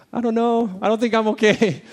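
high, loud, strained wail; desperate. Retold or imitated. Exhausted father answering the nurse, high desperate wail. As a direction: sound at the end of your rope. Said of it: "I'm like".

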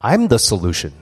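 lightly voiced God speaking inwardly; Holy Spirit's voice. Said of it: "this is what I feel like the Holy Spirit says".

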